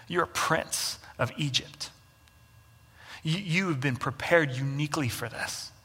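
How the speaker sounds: calm a frightened man by telling him who he is; gentle reassuring God. Retold or imitated. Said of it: "God's response to Moses isn't".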